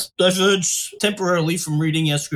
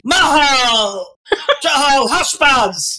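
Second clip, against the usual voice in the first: calling dogs; 4 semitones higher, much slower than usual. Pretend. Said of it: "I could be".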